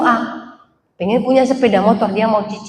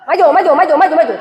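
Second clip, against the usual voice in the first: loud, higher calls of mundur mundur; parking attendant calling; 3 semitones higher, 4 dB louder, much faster than usual. Retold or imitated. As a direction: wave the car back like a parking attendant. Parking attendant voiced directing car. (tukang parkir berteriak mundur)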